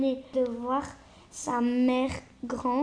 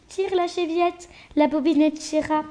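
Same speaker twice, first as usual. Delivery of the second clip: wolf faking a gentle grandmother, a little higher; softened voice; 3 semitones higher, 4 dB louder than usual. Acted. Wolf softening his voice to fool the girl, lightly higher. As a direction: sweeten the wolf's growl just a bit. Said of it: "en adoucissant un peu sa voix".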